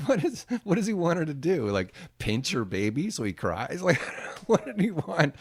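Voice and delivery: loud, high, laughing disbelief; can't believe what he just heard; incredulous disbelief. Real, not acted. Reacting to director's request.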